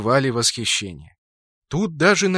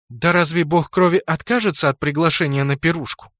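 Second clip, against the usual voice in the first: smirking; 3 semitones higher than usual. Acted. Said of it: "усмехнулась Луна".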